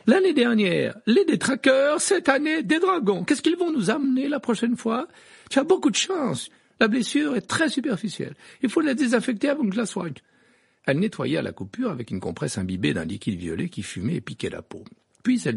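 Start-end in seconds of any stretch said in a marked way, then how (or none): 0.1-10.1 high, loud grumbling rant; grumbling nurse. A narrator's reading. Madame Pomfrey grumbling at Harry while treating him, high. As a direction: grumble while you work. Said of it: "sans cesser de ronchonner".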